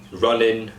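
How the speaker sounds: "running" ending in n; "running" said runnin'; Cockney ing ending. Shown as a demonstration. Coach demos dropped g to cast. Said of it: "ing to n".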